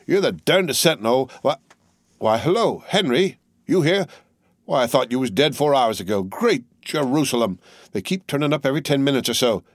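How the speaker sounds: a hint of a rough old soldier; lightly voiced gruff corporal. Corporal counting lost men, mildly blustering. Corporal greets returning Henry.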